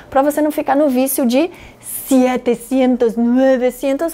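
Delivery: "setecentos, novecentos" said wrongly as "sietecientos, nuevecientos"; wrong Spanish numbers. Shown as a demonstration. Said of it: "não é assim que a gente fala".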